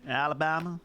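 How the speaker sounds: put-on name states in a Deep South accent. British player naming southern states for fun, Deep South accent. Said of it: "deep south as well".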